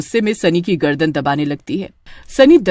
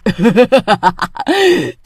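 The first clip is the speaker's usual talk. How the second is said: witch cackle. Acted. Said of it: "अपने असली रूप में आ जाती है".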